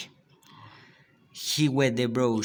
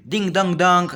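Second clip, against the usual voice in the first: higher, louder bell-like ding dong; imitating a bell; 5 semitones higher, 7 dB louder than usual. A narrator's reading. Boy playing riverboat rings the bell. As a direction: chime it out again like a bell. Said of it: "Then he would shout again".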